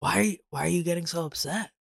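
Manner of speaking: fast, needling calm-dad taunt; mocking dad taunt. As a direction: rattle off the dad's provocation quickly. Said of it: "His other favorite line".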